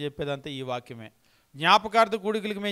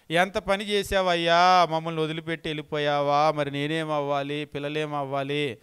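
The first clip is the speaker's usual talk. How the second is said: imitated mourner's lament; 4 dB louder than usual. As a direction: ham up a grieving widow beating her chest. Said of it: "గుండెలు బాధ కొట్టుకుంటా".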